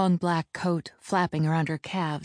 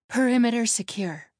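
higher-pitched report called out; calling out; 6 semitones higher, 3 dB louder than usual. Acted. Jesse running up to the group, calling out. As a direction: announce it on arriving.

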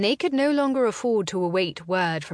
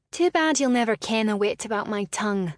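snapping; 4 semitones higher, 4 dB louder, faster than usual. Acted. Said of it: "she snapped in return".

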